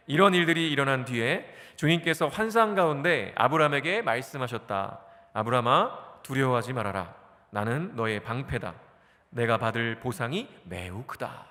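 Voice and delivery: measured reading of the passage, slowing at the end; scripture reading. Acted. Pastor leads the congregation in reading the verse, measured and slowing. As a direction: read the verse aloud with the congregation. Reads scripture aloud together.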